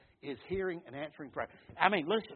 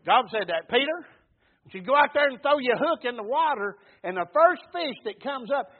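loud, raised sermon delivery; preaching; 6 semitones higher, 11 dB louder than usual. Acted. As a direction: tell it forcefully from the pulpit. Preaches at full force.

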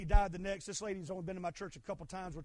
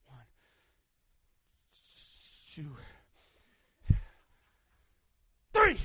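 counting; 7 semitones lower, 5 dB louder than usual. Retold or imitated. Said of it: "where I went".

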